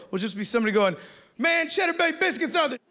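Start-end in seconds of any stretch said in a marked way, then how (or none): 1.4-2.8 high, excited biscuit fan; much higher, bright-eyed fan cheer; clueless hype. Retold or imitated. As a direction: gush about biscuits, oblivious.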